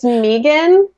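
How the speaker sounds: Megan with an "ee" first vowel, as MEE-gan; mock mispronounced Megan. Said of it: "pronouncing it wrong this whole time".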